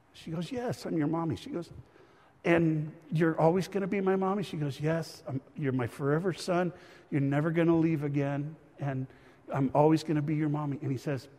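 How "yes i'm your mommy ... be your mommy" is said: tender reassurance. Retold or imitated. Mother reassuring adopted son.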